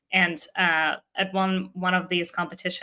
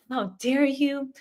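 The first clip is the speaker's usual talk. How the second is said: indignant mom imitated in a Russian accent, higher and drawn out; thick Russian accent; 6 semitones higher, slower than usual. Angry mom confronting the judge over her daughters' name, Russian accent. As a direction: scold slowly in a raised Russian-accented voice. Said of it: "with a very thick Russian accent".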